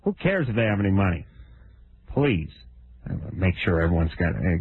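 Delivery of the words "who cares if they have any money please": high, rising mock rant; selfish rant. Host ranting as a greedy taxpayer. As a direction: play it as an outraged tycoon. Comic rant against taxes.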